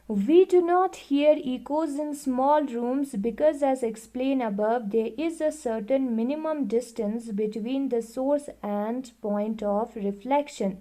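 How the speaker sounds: reading the book aloud, very slowly and evenly; slow classroom read-aloud; slow textbook reading. Acted. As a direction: dictate it word by word to the class. Reads textbook line aloud.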